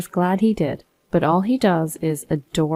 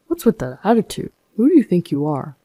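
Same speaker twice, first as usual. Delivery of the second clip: a hint of an arrogant husband's snap; indignant snap. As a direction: throw it back at her, offended. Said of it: "husband snaps back".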